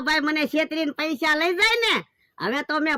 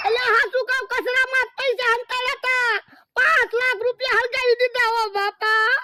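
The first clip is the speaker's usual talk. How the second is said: higher, whining confession; comic lament; 6 semitones higher than usual. Acted. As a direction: wail out the loss. Confesses amount, laments loss.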